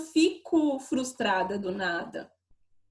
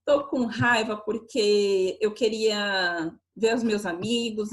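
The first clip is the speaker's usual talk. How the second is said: mock self-questioning. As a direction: search for each reason, stretching the words. Acting out a search for the trigger.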